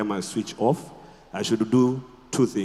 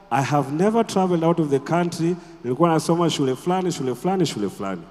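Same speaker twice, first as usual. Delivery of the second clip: lightly put-on New York accent, mostly higher; imitated New York accent; 5 semitones higher, faster than usual. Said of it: "you might think they are from New York".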